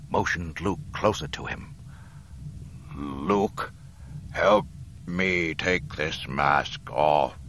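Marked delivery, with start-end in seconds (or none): 3.0-7.4 slow, strained dying voice; weak Dark Lord, drawn out; dying Darth Vader. Acted. Dying Vader asks Luke.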